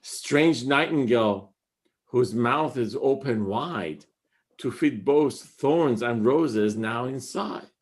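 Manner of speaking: slow, measured reading of the couplet; poem recital. Acted. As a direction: linger on each phrase.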